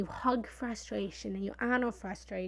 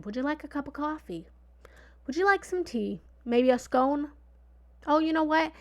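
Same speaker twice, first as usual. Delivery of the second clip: higher-pitched, hospitable offer; welcoming host; 5 semitones higher, 4 dB louder than usual. Acted. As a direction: play the host tempting a guest with treats. Playing host offering frustration refreshments.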